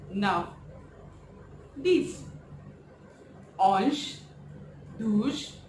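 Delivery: each French number said slowly and clearly, one by one; French counting. Shown as a demonstration. Teacher counting aloud in French for revision. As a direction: model the French numbers for the class to repeat. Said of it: "I'll just pronounce it in French".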